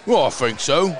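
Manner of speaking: mock British pub accent, sliding to Aussie. Sports host offering chips and a pint to his co-host, in a mock British accent. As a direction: put on a hammed-up English accent. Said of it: "of all the terrible accents you do".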